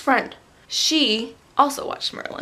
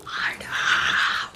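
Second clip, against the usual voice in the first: voiceless strangled mock cry; mock breakdown; 4 dB quieter than usual. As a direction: fake wail collapsing into air. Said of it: "freak out and cry together".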